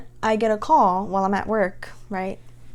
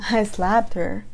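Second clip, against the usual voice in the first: disbelief; slower than usual. Retold or imitated. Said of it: "And I'm like".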